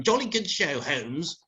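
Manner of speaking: imitating a dim, cheery chum; mock Watson. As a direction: parody Watson's empty praise. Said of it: "while you sat there going".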